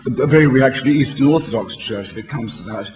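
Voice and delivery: usual speaking voice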